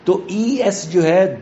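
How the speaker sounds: ordinary talk, nothing marked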